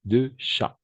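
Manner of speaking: "chats" said as "sha"; silent t in "chats". Shown as a demonstration. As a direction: leave off the ending of "chats". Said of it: "On va prononcer chat". (« chats » sans t ni s)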